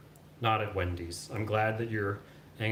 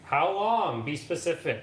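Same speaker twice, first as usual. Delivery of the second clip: louder, higher, insistent; demanding; 6 semitones higher, 5 dB louder, slower than usual. Real, not acted. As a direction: press for an answer. Demanding time from partner.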